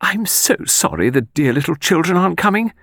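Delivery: high, breathy whispering companion; sentimental murmur. A narrator's reading. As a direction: coo it wistfully in a high half-whisper. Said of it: "murmured Miss Lawson sentimentally".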